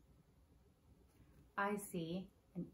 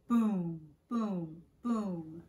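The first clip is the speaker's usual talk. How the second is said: thunder boom; 3 semitones lower, 4 dB louder, much slower than usual. Acted. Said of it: "Mister Brown makes thunder".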